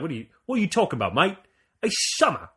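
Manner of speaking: put-on quick, weak New Zealand accent; barely-there New Zealand accent; bad Kiwi accent. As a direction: toss off a poor Kiwi impression. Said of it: "That's not even, that's not even good".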